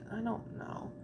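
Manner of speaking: mumbled brush-off; mumbled quote. Retold or imitated. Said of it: "I'm like".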